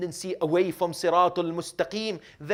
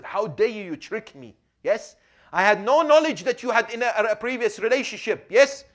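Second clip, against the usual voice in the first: louder and higher, a preacher's mock fury; raging anger; 6 semitones higher, 8 dB louder than usual. Husband confronting his new wife, raging with anger. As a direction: hurl the accusation like a betrayed husband. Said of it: "I was raging with anger".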